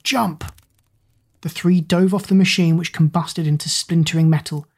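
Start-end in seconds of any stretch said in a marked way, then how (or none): 0.0-0.4 yell. Acted. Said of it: "Zack yelled".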